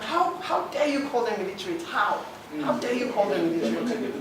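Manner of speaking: real indignation, pitched a little up; indignant. Real, not acted. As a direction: challenge them, affronted on someone's behalf. Indignant challenge to critics of Almajiri.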